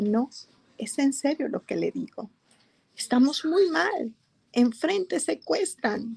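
a retold earnest plea, pitch climbing in places. Churchgoer tells her leader of the kidnapping danger, in earnest. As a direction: plead your case seriously, mildly heated. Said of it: "yo estaba hablando en serio".

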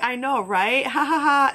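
put-on laughing agreement; imitated polite laugh. Waitress humoring a rude customer, imitated laugh. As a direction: play along with a fake "ha ha ha". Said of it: "kinda laughed".

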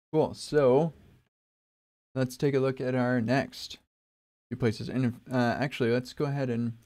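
talking while crunching snacks; words around mouthfuls of chips. Real, not acted. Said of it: "you might hear me crunching".

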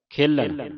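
ਖੇਲਣ with a weighty middle l; heavy pronunciation. Shown as a demonstration. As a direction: lean heavily on the l in ਖੇਲਣ. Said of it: "ਇਹ ਵੀ ਭਾਰਾ ਬੋਲਣਾ ਹੈ".

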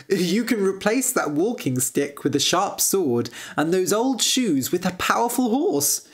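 lightly voiced prince, pleading his case; a hint of a persuasive suitor prince; eager prince. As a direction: coax hopefully as a storybook prince. Voices prince proposing to George.

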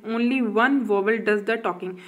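slow, careful reading of a rhyme. Acted. Teacher reading the vowel rhyme to a student slowly. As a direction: read it slowly so the child follows.

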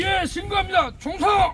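loud barked salute; korean military style. Shown as a demonstration. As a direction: shout the salute like a soldier. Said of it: "복무원 신고 한번 해봐". (군대식 경례 외침)

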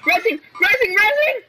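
building from plain to a high call; hyped gamer bro. Real, not acted. Calling out repeatedly, rising pitch.

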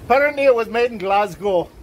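playful mock Scottish accent; amateur stab at a Scottish accent. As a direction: put on a jokey Glasgow Scottish accent. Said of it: "you can do your Scottish accent again".

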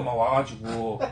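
normal talking voice

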